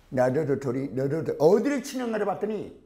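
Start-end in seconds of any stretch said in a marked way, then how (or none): 0.1-1.4 put-on "나도 도토리, 너도 도토리" with tongue-short English-accented d and t; English-speaker accent in Korean. Teacher mimics native English speakers repeating Korean, English-accented and tongue-short. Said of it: "혀 짧은 소리가 납니다".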